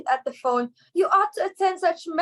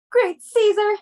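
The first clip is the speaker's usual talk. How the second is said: dismayed cry; 7 semitones higher, 7 dB louder, slower than usual. Acted. Realizes she blundered.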